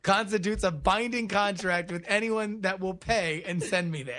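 formal declaration read aloud; mock-solemn contract reading. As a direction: read it out like a binding legal vow. Reads a paid joke ad aloud.

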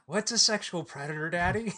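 mock innocent daughter asking her father; innocent child voice. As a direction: ask like a naive kid.

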